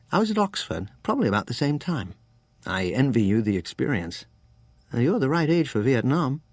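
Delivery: put-on lightly English-accented Oxford man; slightly English accent. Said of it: "His accent was hard to place, something English in it".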